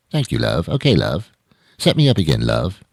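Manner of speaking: lightly mimicked British pub regular; British accent. British guy throwing love around at a bar, light British accent. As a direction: toss out each line in a light British accent. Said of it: "The British accent".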